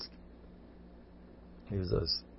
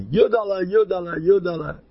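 mock crying plea; 9 semitones higher, 5 dB louder than usual. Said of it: "so he was crying".

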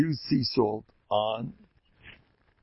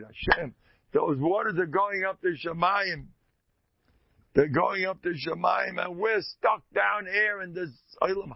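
mild mock lament, a bit higher; lower waters crying; 7 semitones higher than usual. The lower waters cry out to Hashem, mild mock lament. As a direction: voice the lower waters complaining, lightly plaintive. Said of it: "they cried".

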